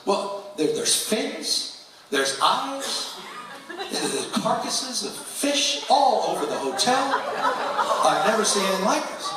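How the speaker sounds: imitating a panicked engineer, high and half laughing. Engineer calling the boss at dawn, mock panic.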